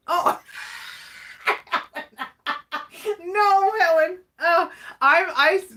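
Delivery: suddenly realising the name mix-up; surprised. Real, not acted.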